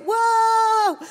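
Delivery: a high, shouted whoa that falls away; ecstatic whoa. Retold or imitated. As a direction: cry out whoa as if overpowered. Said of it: "I'd say things like".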